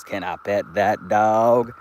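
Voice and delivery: slow, drawn-out imitation of a viral clip; YouTube drop impression. Quoting a YouTuber's drop to the chat, slow light mimicry. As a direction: lightly mimic the drop, stretching each word. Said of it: "he has a drop that's spelt like".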